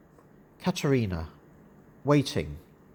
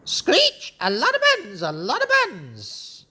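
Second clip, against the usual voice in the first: screeching parrot. Acted. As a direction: squawk like an excited parrot.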